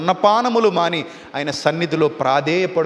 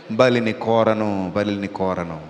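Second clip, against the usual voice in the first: much lower, softer, slow divine voice; voice of God; 10 semitones lower, 4 dB quieter, slower than usual. Acted. God answering the repentant king, low, soft and slow. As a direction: speak low and quiet, each word weighed.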